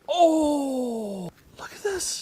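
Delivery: high, choked-up gush; getting emotional. Real, not acted. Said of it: "I'm gonna get emotional".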